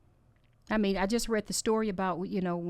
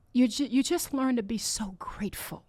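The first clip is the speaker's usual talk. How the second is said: tearful whisper; 4 semitones higher than usual. Real, not acted. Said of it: "I'm sorry I'm crying".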